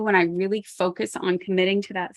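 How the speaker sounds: hiccuping mid-sentence. Real, not acted. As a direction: speak through hiccups. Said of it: "sorry, I'm hiccuping".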